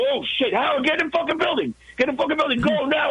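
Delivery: urgent high yelling at Howard; frantic, get him moving now; panicked warning. Retold or imitated. Urging Howard to flee.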